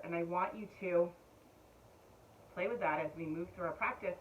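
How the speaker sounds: usual speaking voice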